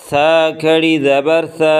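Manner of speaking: سا with the tongue tip between the teeth; lisped tha. Shown as a demonstration. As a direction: push سا out through the teeth. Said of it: "زبان کی نوک کو دونوں دانتوں کے درمیان سے تھوڑا سا باہر نکال کے". (زبان دانتوں کے بیچ سے سا)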